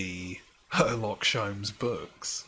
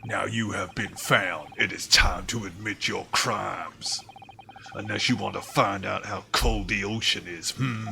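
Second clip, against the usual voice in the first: louder gruff guard mocking the suspect; 3 dB louder than usual. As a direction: bark at him, louder, with a mocking hmm. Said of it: "He had, like, a really gruff voice".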